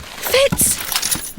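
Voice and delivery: sharp high call of his name; exasperated scold. Acted. Simmons catching Fitz with the weapon, exasperated. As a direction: call him out like a scolding sister.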